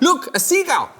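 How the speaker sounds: high, bright fake cheer; distracting trick. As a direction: point away to distract. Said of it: "new kid is like".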